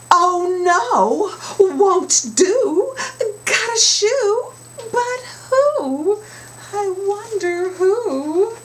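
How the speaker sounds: whole chorus up high and loud. Acted. Chorus, climax.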